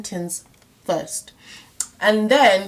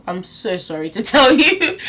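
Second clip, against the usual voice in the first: laughing apology; 3 dB louder than usual. Real, not acted. Teacher apologises while laughing.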